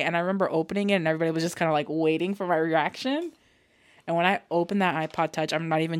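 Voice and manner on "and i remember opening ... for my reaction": usual speaking voice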